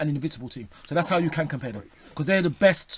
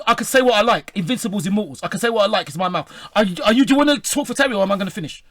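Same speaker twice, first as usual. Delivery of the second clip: heated; 2 semitones higher, 4 dB louder than usual. Real, not acted. Heated studio argument, fed up.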